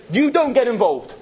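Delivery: mock stern rebuke; scolding the walls. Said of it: "He says".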